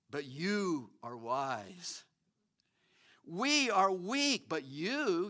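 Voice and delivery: slow, mocking read of the verses; sarcastic scripture reading. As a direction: drag each line out with dry irony. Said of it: "Paul's gonna use sarcasm".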